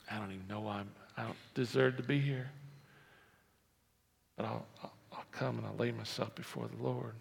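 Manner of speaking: very soft, low, halting voice; hesitate, barely daring to speak up; humble tax collector. Acted. Tax collector who feels undeserving before the Lord, hushed and humble. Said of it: "Tax collector".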